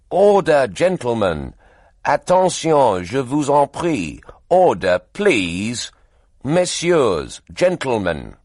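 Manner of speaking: loud, harried chairman's call; shouting for order. Acted. Chairman shouting down an unruly press meeting, loud. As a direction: bang the gavel with your voice over the din. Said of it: "shouted Pig".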